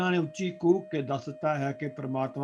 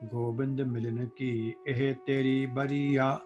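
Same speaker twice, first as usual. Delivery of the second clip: scripture recitation; 3 dB louder than usual. Acted. Preacher intoning Gurbani for the listening congregation, chanted. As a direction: intone the holy verse with devotion.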